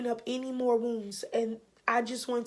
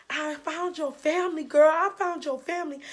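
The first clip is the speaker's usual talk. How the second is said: higher-pitched retold excitement; excited news; 4 semitones higher, 5 dB louder than usual. Coworker calling her with the big news, excited. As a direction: break the big news to a friend, voice lifted. Retelling coworker's breakthrough phone call.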